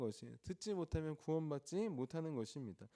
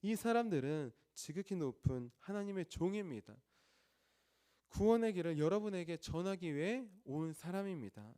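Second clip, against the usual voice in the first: slightly raised, proclaiming voice; mild imitated shout; 3 semitones higher, 4 dB louder than usual. Preacher quoting the slave girl crying after Paul, mild imitated shout. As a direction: call it out as a restrained mock shout. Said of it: "크게 소리를 지릅니다".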